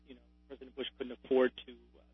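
faint, distant phone voice; speaking too far from the phone; phone held away. Real, not acted. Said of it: "Can you lean into your phone a little bit there".

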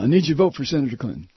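rapid, lightly imitated request; Bart Kopp. Host imitates his hero asking for a vote, quick light impression. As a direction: rattle off the favor as an imitated pal. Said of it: "isn't that the way he talks".

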